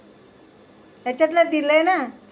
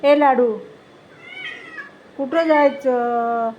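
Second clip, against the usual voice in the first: slow, drawn-out coaxing question; slow sing-song coaxing of a pet; coaxing pet talk; slower than usual. Real, not acted. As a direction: ask it slowly and sweetly, as to a pet.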